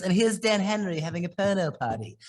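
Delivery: put-on a light British accent, teasing; mild British accent quoting a friend; imitating British accent. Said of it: "he has a British accent".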